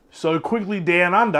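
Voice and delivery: put-on slips back into a jokey Aussie accent; mock Australian accent. Host naming the Australian film in mock Australian accent. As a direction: say the title in a hammed-up Australian accent. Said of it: "I'm gonna stop doing that accent".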